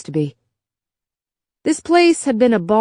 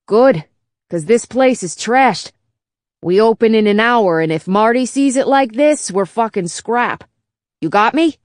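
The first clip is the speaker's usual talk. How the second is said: gruff Chicago bartender bot; 3 semitones higher than usual. Acted. Old bartender bot hurrying a stranger inside, brash Chicago voice. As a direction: push him in, worried about the boss.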